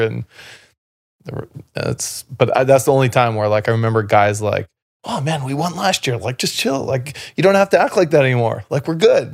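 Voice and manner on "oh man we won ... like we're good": higher-pitched imitation of complacent teammates; mock complaining. Teammates after last year's win telling him to chill, mock complaining. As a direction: whine lightly, as if imitating lazy teammates.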